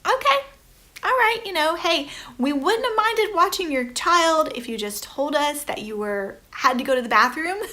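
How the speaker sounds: high, mock-polite disbelief; incredulous moms. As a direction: act stunned at the rude dad. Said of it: "we're all standing there going".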